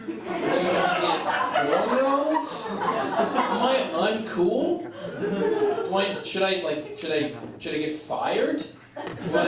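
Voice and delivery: slow, drawn-out disbelief with laughter; baffled, laughing through it; incredulous. Retold or imitated. Comic repeating a friend's advice, slow laughing disbelief.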